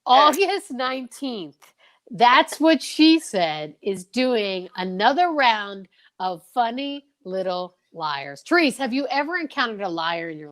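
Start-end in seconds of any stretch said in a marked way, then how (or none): 0.1-8.4 slow, drawn-out showman announcement; milk the big reveal slowly; slow game show host hype; hyped announcement. Acted. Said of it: "hold on to your shoes".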